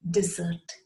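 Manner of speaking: "dessert" as dih-ZERT, second syllable stressed. Shown as a demonstration. Teacher sums up the sweet course, "dessert" as dih-ZERT. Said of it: "pronounced as".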